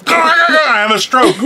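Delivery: slow, high mock outburst through laughter; hammed-up imitation of her energy, drawn out and high; matching her manic energy. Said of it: "let me try and match her energy".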